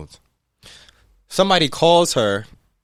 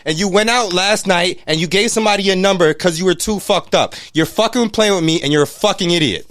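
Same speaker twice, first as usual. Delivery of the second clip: re-enacted scolding, slightly raised; retold yelling; 4 semitones higher than usual. Telling Mila off for giving out a number, retold yelling. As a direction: retell the telling-off with some heat. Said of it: "has been me yelling".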